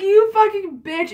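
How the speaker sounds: high, loud, drawn-out retort; exaggerated indignant squeal, retold; mock outrage. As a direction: stretch out a high-pitched insult at a friend. Retold angry retort to friend.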